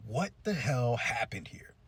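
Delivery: slow, whispered shock; stunned whisper. Acted. Girls outside seeing the damage, slow stunned whisper. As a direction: whisper it in drawn-out disbelief.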